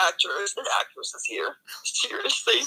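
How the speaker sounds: conspiratorial whisper aside. Real, not acted. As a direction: whisper it like a secret jab. Snarky aside about actors.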